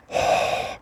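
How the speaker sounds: long unvoiced breath out; cold air breath. Real, not acted. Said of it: "I can see my breath".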